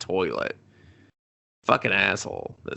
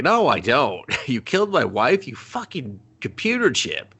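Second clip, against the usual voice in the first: higher-pitched acted indignation; mock angry outburst; 5 semitones higher than usual. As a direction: hurl a half-serious accusation, pitched up. Acted quarrel with wife's killer.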